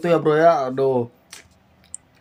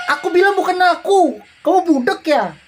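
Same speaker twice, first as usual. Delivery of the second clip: a touch of a snapping husband, higher; angry husband; 11 semitones higher than usual. Acted. Husband brushing off his wife, mildly annoyed. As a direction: read the husband's denial with mild irritation.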